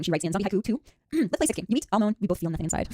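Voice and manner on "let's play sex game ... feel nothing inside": poem reading. Acted. Reading zombie haiku.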